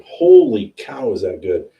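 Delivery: loud, drawn-out holy cow of delight; amazed exclamation. Real, not acted. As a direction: let the taste knock you back, slowly. Savoring an amazing bourbon.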